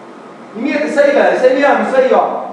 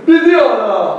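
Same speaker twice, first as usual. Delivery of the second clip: louder crooner voice for Pedido!; full crooner impression of a singer; 4 dB louder, much slower than usual. Shown as a demonstration. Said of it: "tem que trocar M pelo B".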